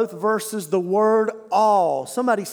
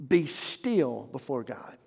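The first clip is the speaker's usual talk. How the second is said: softer, slower repeat, almost breathed; hushed and slow; 7 semitones lower, 6 dB quieter, slower than usual. Shown as a demonstration. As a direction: let it sink in quietly.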